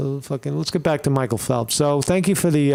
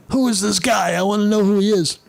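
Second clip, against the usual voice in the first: exasperated demand; 5 semitones higher, faster than usual. Real, not acted.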